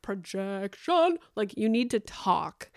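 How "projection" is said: slow, drawn-out projected word; podcast voice. Shown as a demonstration. Coaching husband on podcast voice, projected slowly. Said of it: "train him to have, like, a podcast voice".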